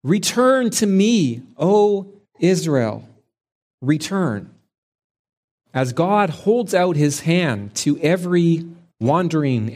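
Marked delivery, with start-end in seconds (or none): 0.0-4.5 slow, higher, pleading call; God calling his straying people home, slow and pleading. Acted. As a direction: hold out your hands and plead, slowly. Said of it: "pleading with them".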